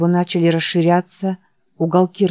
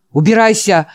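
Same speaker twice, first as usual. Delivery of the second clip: loud shout to get out; 3 semitones higher, 5 dB louder than usual. Acted. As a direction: bark at him to leave. Old man screams again. (громкий крик)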